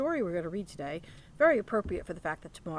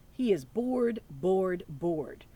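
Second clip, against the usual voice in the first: bored said loud, then fading away; 4 dB louder, much slower than usual. Acted. Reading to children, drawing out the bear's boredom, fading.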